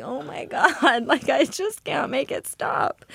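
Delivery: helpless laugh breaking into the words; laughing through it. Retold or imitated. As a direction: laugh while pleading with the chaos. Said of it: "and I'm like".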